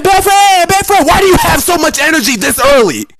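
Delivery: mock loudmouth. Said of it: "Why are y'all screaming".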